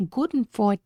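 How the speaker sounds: light attempt at a German accent. Shown as a demonstration. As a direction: say it like a German speaker. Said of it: "I'm really trying to do a German accent".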